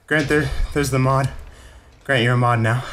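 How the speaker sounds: winded after dabbing; panting between words; out of breath. Real, not acted. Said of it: "yeah, I'm winded".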